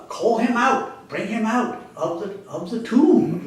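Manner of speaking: calling out. Retold or imitated. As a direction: call him out like a summons. Jesus calling Lazarus from tomb.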